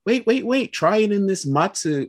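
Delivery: high eager host voice; lightly voiced band leader offering the cup; imitating Masa. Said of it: "me was like".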